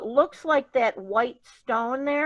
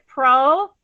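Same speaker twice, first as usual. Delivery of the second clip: slow syllable demo; 7 dB louder than usual. Shown as a demonstration. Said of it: "let's break it up".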